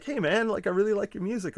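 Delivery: lightly mocked admirer; mock fan voice. A fan at the concert praising the music, imitated high and mocking. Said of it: "start talking like this".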